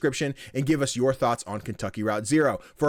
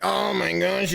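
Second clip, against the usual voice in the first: high-pitched mock swoon; retold flustered reaction; 6 semitones higher, slower than usual. Fan reacting to the actress's insult, high mock fluster. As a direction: jump up in pitch, playfully flustered.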